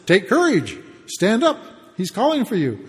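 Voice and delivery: lifted, mock-encouraging call to get up; lightly acted rallying cry; suddenly encouraging. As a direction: imitate a crowd turning eagerly supportive. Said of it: "they've really changed their tune".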